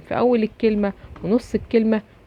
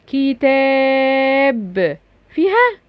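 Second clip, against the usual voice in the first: playful teasing question; 4 semitones higher, much slower than usual. Acted. Quizzing children on a sound.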